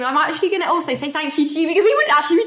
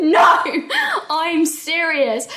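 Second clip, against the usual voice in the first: retold protest, higher, drawn out; insisting she's serious; 5 semitones higher, 3 dB louder, much slower than usual. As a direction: imitate yourself pleading to be taken seriously. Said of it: "Trying to get you all to take me seriously".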